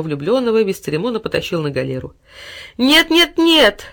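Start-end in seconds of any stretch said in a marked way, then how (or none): 2.8-3.8 much higher, louder desperate cry; desperate wail. A narrator's reading. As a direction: wail no as he is dragged off. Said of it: "в отчаянии завопил малыш". (отчаянный вопль, гораздо выше и громче)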